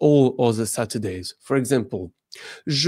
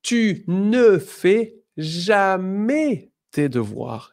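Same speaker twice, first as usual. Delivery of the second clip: slow and higher, each word set apart; slow model sentence; 6 semitones higher, 3 dB louder, slower than usual. Shown as a demonstration. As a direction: read the example slowly for learners. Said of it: "So here we go".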